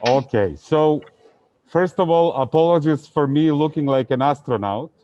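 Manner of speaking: speaking through a face mask; muffled by mask. Real, not acted. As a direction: talk muffled behind a mask. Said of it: "can you understand me speaking with the mask".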